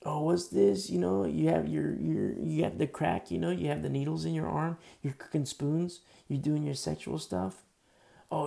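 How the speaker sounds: mocking a preacher's slick rock star voice. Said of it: "they do their little rock star voice".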